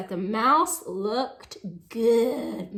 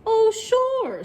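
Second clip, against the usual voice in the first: mocking laugh; 9 semitones higher, 7 dB louder than usual. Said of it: "bursting with laughter".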